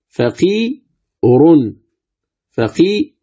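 فقير ending in a faint trace of u on the r; فقير with the final vowel reduced to a whisper; فقير with a short, weak u after the r; stop with rawm. Shown as a demonstration. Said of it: "الراء مضمومة".

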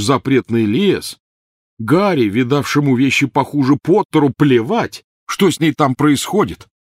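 high, loud bitter tirade; furious rant. A narrator's reading. Ron raging at Harry about his sister, loud rant. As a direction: rage at him over his sister.

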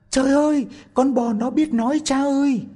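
the maid to the priest, high panicked shout. Acted. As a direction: burst in terrified, crying out. Maid runs in terror to priest.

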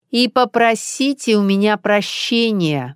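slow, commanding demand; imperious. Acted. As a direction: make her beg. Ilona demands an apology. (Илона требует извинений, властно и медленно)

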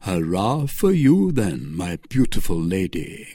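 cheering captain. Acted. Captain thanking Milady for gold, mildly hearty cheer. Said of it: "cried the captain".

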